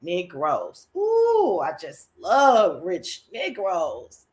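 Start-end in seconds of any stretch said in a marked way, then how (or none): 1.6-4.2 slow, savoring love; swooning delight; excited. Real, not acted. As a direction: relish every word. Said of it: "overly excited about this show".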